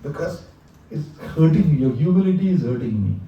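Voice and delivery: tender plea from God to his devotee; the Lord pleading. Retold or imitated. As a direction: Lord begging devotee to stop. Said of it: "that the Lord told them".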